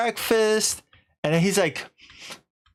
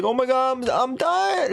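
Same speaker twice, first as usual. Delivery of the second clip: high, stammered cry of doom; hammed-up dying plea; mock panic; 10 semitones higher than usual. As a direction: act out panicking while sinking. He is sinking in the pool.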